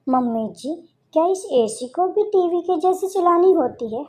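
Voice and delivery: put-on high, innocent young bride voice; naive daughter-in-law. Bride's clueless question. (ऊँची, भोली बहू की आवाज़)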